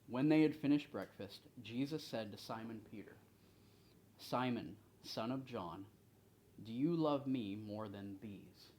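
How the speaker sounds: deliberate reading, firm openings to phrases; scripture reading. A narrator's reading. Leader reads Jesus questioning Simon Peter, deliberate scripture reading. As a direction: read the verse out, giving each phrase room.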